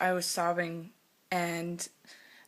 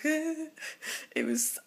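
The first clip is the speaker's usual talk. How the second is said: laughing; 9 semitones higher than usual. Real, not acted. Laughs recalling embarrassing crying.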